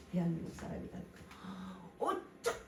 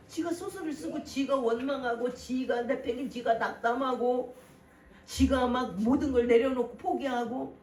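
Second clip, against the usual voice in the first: louder, rising rebuke; preaching at full force; 3 semitones higher, 5 dB louder than usual. Real, not acted. Preacher rebuking the congregation's self-pity, loud and rising. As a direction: hammer home the scolding.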